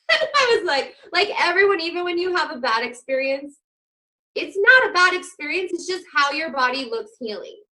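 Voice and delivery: high, loud, emphatic; excited insistence. Real, not acted. Telling the host healing looks bad but isn't, loud excited insistence. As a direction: push the point hard, voice climbing.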